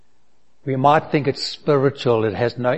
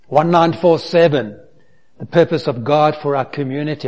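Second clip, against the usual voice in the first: preaching louder; 2 semitones higher, 6 dB louder than usual. Real, not acted. Pastor calls out congregation's purpose.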